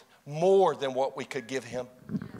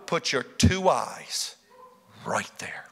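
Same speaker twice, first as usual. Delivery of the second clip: whisper; 5 semitones lower, slower than usual. Real, not acted. Preacher urging the congregation to look, whispered. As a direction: hush it as a secret. Intimate pointing to Jesus.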